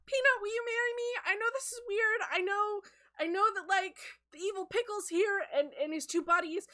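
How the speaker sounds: flustered, halting plea; anxious proposal. Acted. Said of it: "we see a little bit of the anxiety".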